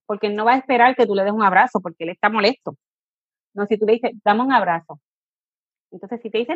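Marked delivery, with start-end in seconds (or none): 4.2-5.0 calm, kind offer of a hug; gentle hug offer to an angry child; gentle invitation. Shown as a demonstration. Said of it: "No es lo mismo".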